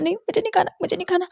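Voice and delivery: high, petulant no; sulking child refusal. Acted. Boy refuses the food Martha offers, high and sulky.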